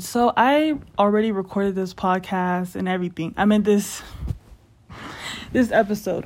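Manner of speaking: breathless, talking between breaths; catching breath mid-sentence. Real, not acted. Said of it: "Why am I out of breath?".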